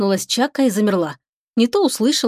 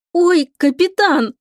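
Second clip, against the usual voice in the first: slow, much higher joyful cry; beaming delight; 8 semitones higher, 4 dB louder, much slower than usual. A narrator's reading. Lika delighted at the captain's thanks, high slow joyful cry. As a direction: glow with delight as you say it. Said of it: "Лика засияла".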